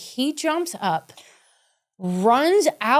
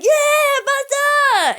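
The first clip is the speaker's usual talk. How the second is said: much higher, louder, laughing "Yeah"; relieved cheer; 5 dB louder, much slower than usual. Retold or imitated. Host cheering that nobody is hurt, a much higher, louder laughing "Yeah". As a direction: cheer like you just survived. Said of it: "and I was like".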